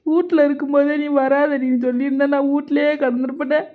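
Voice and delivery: keen like a village mourner, half in jest; a sing-song lament pitched high over her worries; mock dirge wailing. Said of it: "என்னடி ஒப்பாரி வச்சுக்கிட்டு இருக்கிற?".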